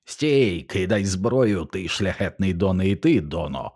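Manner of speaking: a lightly voiced inhuman forest spirit commanding a halt; half-hearted hoarse spirit call, slow on кидай зброю; хриплий нелюдський голос. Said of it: "Хриплий голос, у якому не було нічого людського". (легкий натяк на хриплий нелюдський голос)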